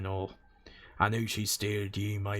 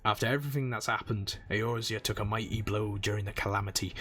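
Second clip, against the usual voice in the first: gruff old sailor brogue, lightly put on; a dock-boss accent, lilting; pirate accent. Old sailor welcoming a newcomer, lightly accented. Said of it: "How terrible is my accent?".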